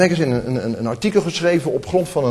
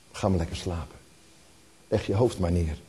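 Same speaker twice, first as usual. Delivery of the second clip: put-on hushed and soft, like tucking in a child; tender lullaby voice; 7 semitones lower, 8 dB quieter than usual. Mother tucking her little boy into bed, hushed and tender. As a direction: soothe a little one to sleep, very softly.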